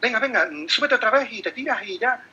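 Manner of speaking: put-on a worried parent rushing the kid back on; mock anxious parent urging a child on; anxious hurrying. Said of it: "Muy ansioso".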